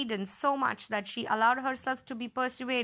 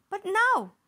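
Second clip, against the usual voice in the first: furious; 8 semitones higher, 6 dB louder than usual. Acted. Queen furious Snow White lives.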